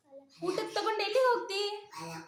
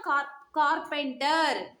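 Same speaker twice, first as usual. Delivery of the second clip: slow, lower, drawn-out word; teacher's model answer; 5 semitones lower, slower than usual. Shown as a demonstration. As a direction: stretch the word out for a child to copy. (ನಿಧಾನವಾಗಿ ಎಳೆದು ಹೇಳಿಕೊಡುವುದು)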